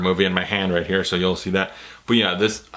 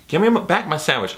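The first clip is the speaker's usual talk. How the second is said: put-on Boston accent; 6 semitones higher than usual. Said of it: "Was that a Boston accent?".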